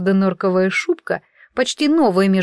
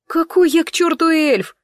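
higher, scoffing retort; a snorting, higher put-down; indignant snort; 8 semitones higher than usual. A narrator's reading. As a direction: scoff at the very idea. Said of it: "фыркнула я".

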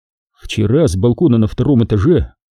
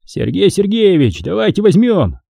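asking; 7 semitones higher than usual. Acted. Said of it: "попросил лейтенант Парков".

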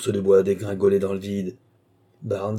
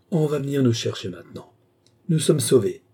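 relieved cry; 5 semitones higher, 3 dB louder than usual. Acted. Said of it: "cria-t-il".

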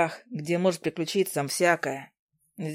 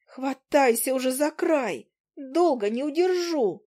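strained, slow urging; pushing the words out while pulling him up; straining rasp; 5 semitones higher, slower than usual. Acted. Izi holding Willy over the crack, straining. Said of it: "прохрипела с натугой".

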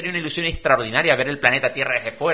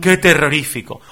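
moaning pessimist; 5 dB louder than usual. Retold or imitated. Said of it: "aquellos que dicen".

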